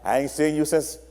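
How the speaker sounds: low sweet clingy voice; clingy partner. Acted. Clingy partner greeting someone seen that morning. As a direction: coo at them like you missed them.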